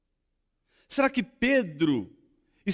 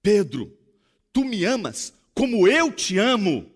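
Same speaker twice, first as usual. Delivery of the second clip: earnest question; 4 semitones higher, 8 dB louder than usual. Acted. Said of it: "Jesus olha pra Pedro e diz assim".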